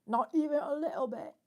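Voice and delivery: loud, high, hammed-up British accent. Shown as a demonstration. Streamer showing chat her British accent, loud and high. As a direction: belt it out in a mock posh British accent. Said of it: "I love a British accent".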